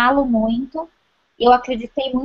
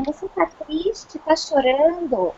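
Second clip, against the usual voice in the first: imitating little daughter; 4 semitones higher, slower than usual. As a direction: gently ask like a worried small girl. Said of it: "E ela fala assim".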